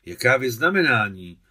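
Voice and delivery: loud, startled retort; taken-aback question. A narrator's reading. Old woman straightens up at the boy's question, taken aback. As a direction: question it loudly, as if caught off guard. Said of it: "napřímila se stařena".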